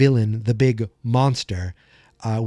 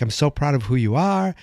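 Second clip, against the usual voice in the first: emotional voice. Retold or imitated. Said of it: "if you hear the emotion in my voice, it's very real".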